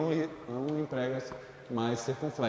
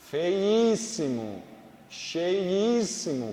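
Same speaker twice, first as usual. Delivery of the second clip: "feíssimo, cheíssimo" slowly, leaning on "í"; stretched example words; 3 semitones higher, 4 dB louder, much slower than usual. Shown as a demonstration. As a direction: draw out each example word. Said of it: "obviamente que". ("feíssimo, cheíssimo" bem devagar, com o "í" marcado)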